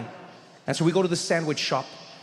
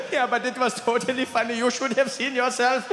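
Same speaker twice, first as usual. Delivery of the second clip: higher, giggly teasing; amused German friend; 8 semitones higher than usual. Retold or imitated. Friend teasing him on the ride home, amused. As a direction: tease him while still laughing. Rolf still laughing.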